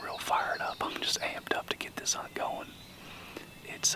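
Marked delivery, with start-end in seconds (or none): 0.0-0.9 hushed whisper so the birds won't hear; hunting whisper. Real, not acted. Hunter whispering to the camera while a gobbler calls.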